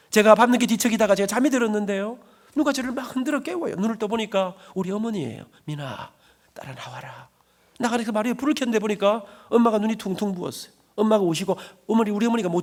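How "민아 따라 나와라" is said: softer, a hushed night whisper. Retold or imitated. Mother waking her son at night, whispering. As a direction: whisper so nobody else wakes.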